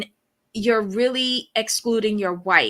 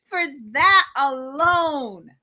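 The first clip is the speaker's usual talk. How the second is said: laughing outrage; 3 semitones higher, slower than usual. Real, not acted.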